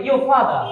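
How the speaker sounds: your father as "yo fada", no r; R silent. Shown as a demonstration. Teacher giving the correct form, your father without r. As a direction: leave off both r's in your father. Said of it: "তাহলে এটা উচ্চারণ হবে".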